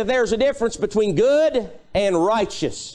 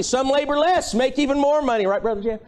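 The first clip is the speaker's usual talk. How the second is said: gentle teasing; 5 semitones higher, faster than usual. Real, not acted. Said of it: "I'm just kidding".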